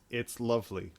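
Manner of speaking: unimpressed, uninflected retold reply; monotone. Mimicking the princess's response to a magic carpet, monotone. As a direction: deliver it with no wonder at all. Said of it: "in a monotone voice".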